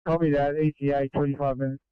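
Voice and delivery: crackly two-way radio transmission; ambulance radio. Real, not acted. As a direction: voice over a handheld radio. Radio traffic between crews.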